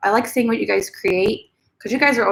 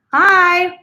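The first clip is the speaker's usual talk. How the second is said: pet voice; 9 semitones higher, 7 dB louder than usual. Pretend. Mama told to say hi.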